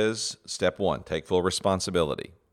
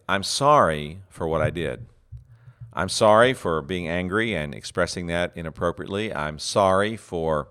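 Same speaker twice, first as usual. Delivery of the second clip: true apology. Shown as a demonstration. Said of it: "what's a true apology sound like".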